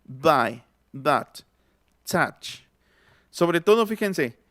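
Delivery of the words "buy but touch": "Buy, but, touch" spaced out, vowel between A and O; intermediate vowel. Shown as a demonstration. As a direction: say "touch" as "tach". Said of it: "Está como entre la A y la O".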